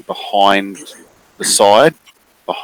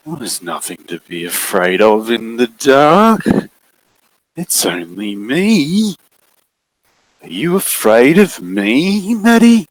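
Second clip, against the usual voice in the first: slow, sweetly menacing; sinister coaxing; 4 semitones higher, slower than usual. Acted. Looming figure reassuring the frightened girl, slow and sweet. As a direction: reassure her with hidden menace.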